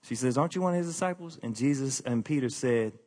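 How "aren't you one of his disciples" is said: a hint of the questioning woman, quick; just ask it, almost offhand; lightly voiced woman. Gate woman questions Peter, lightly voiced and quick.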